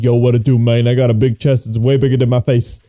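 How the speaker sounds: lightly voiced low muscle-man; buff guy. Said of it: "that's a buff B B".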